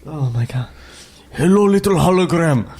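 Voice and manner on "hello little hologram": mock alien villain accent; slow, hammed-up foreign-accented menace; Trade Federation guys. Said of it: "like, the Trade Federation guys".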